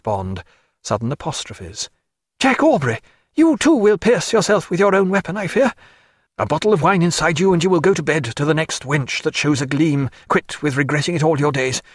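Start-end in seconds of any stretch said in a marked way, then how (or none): 2.4-11.8 sick surgeon lecturing his captain in delirium, pitched up; feverish raving. Acted. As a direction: rant as if lost in fever dreams. Delirious Stephen raving at Jack.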